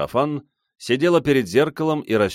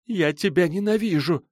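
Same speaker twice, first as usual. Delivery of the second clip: bitter hatred; 10 semitones higher than usual. A narrator's reading. Silva spits hatred again.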